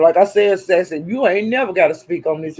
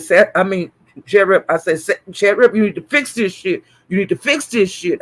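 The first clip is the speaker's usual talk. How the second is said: steady, firm demand; firm scolding. Retold or imitated. Streamer scolding Chat Rep to fix it, firmly. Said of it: "I was talking to her just like that".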